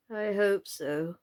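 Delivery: mild, slow doubtful reply; a touch of hesitant doubt. Acted. Knight answers Alice, a touch doubtful. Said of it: "the knight said doubtfully".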